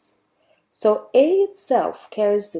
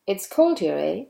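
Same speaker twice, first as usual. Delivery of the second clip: statement with EH rising at the end; rising confirmation "eh". Shown as a demonstration. Teacher wants to know whether you agree, rising "eh". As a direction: tag on "eh" with a rising tune, asking for agreement. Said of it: "A has rising intonation".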